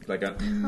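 a closed-mouth hum, "mm"; humming. Shown as a demonstration. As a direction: hum "mm" through the nose. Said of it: "a humming noise".

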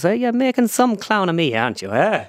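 high put-on pundit, dropping at the tag question; Ger Loughnane. Pundit confronting his impersonator, high caricatured voice. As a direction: start the impersonation well up, then let it fall. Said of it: "he looked at me and he goes".

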